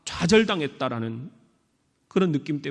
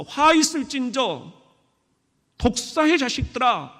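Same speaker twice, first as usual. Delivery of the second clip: angry Jesus rebuking; 6 semitones higher than usual. Acted. Jesus to the religious leaders failing to lead, mildly acted angry rebuke. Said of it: "예수님도 화를 내셨어요".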